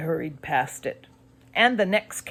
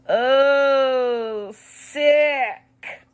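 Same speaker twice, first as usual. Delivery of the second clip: a high, mild mock moan of disgust; 7 semitones higher, 5 dB louder than usual. A narrator's reading. Narrator moans at the shrunken head, mild higher moan. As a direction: groan at the gross thing, lightly. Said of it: "I moaned".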